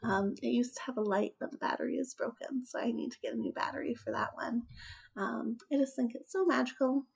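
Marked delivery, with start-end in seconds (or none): 2.6-4.6 whisper. Real, not acted. Trailing whisper aside.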